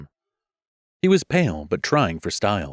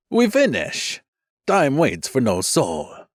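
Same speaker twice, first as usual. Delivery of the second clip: brisk command; 6 semitones higher, slower than usual. Acted.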